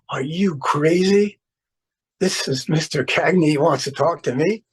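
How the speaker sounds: stunned inner voice, lightly played; incredulous. Acted inner disbelief at summons.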